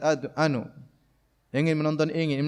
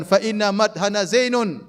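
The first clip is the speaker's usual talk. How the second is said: boastful; 4 semitones higher, slower than usual. Retold or imitated. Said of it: "Maka dia mengatakan".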